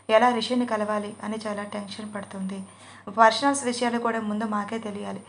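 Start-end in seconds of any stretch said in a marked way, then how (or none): none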